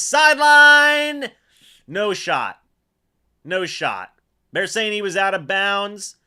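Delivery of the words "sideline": sudden high yell of sideline!; shouted call. Real, not acted. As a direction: shout it as the ball flies. Calling a pass to the sideline.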